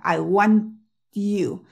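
'I want you' stretched, pausing on the held T; slow it right down, tongue stopping at the T; slow motion. Shown as a demonstration. Teacher demonstrating the tongue position in slow motion. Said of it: "voy a intentarlo hacer en cámara lenta".

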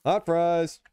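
loud kitchen call. Acted. Kitchen call in food game.

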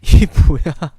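halting reading. Real, not acted. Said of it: "나 지금 나오는 대로 읽고 있는 거예요".

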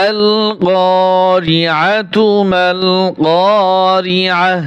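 slow, drawn-out chanted recitation; Quran recitation. Shown as a demonstration. Teacher recites the verse for students, slow chanted recitation. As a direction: chant the verse slowly with tajweed.

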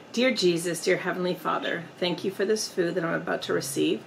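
bow your head and thank the Lord; grace before a meal. Real, not acted. Vlogger saying grace to Jesus before eating, earnest prayer.

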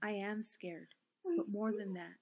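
steel yourself under your breath; quiet resolve. A narrator's reading. Eleanor in the dark working up to a yell, hushed.

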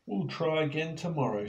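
Penny comforts Og; reassuring. Acted. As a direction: cheer Og up. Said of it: "said Penny".

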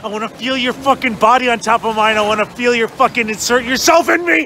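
mock sultry low plea; low mock seduction. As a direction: drop low and ham the desire.

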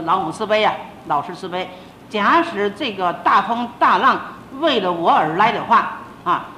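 retold desperate vow to the gods, half performed; fervent prayer. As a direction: beg the heavens for calm. Praying on deck during storm.

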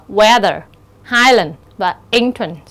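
weather, highland, entrance, each weighted at the front; first-syllable stress. Shown as a demonstration. Teacher gives examples, stressing the first syllable of weather, highland, entrance. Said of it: "nhấn ở âm tiết thứ nhất".

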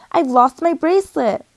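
high, loud cry of alarm, read aloud; storybook scream. A narrator's reading. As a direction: voice a girl's scream without going all out. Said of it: "Emmy screamed".

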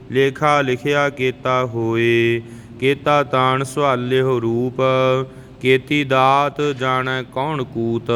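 slow, measured Gurbani recitation; scripture recitation. Shown as a demonstration. Teacher models Japji verses for learners, measured recitation. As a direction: recite line by line, drawing out the endings.

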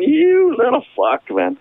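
high, drawn-out indignant curse; acted-out exasperated anger; retold outrage. Acts out anger at friend.

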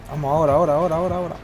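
loud, rapid cheering on; excited urging. Real, not acted. Urging teammate at the right moment.

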